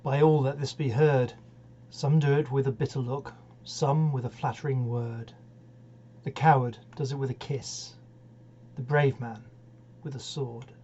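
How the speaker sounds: measured, solemn reading of verse; poem recitation. Acted. Poetry host opening with the refrain, solemn recital. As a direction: recite it gravely, line by line.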